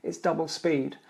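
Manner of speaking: hushed, to himself; quiet inner thought. Retold or imitated. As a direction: mutter it like a private realization. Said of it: "and I think".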